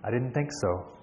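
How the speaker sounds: low, soft, deliberate comeback; understated, knowing reply; slow and deliberate. Acted. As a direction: say it quietly, dead in the eyes. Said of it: "said slowly".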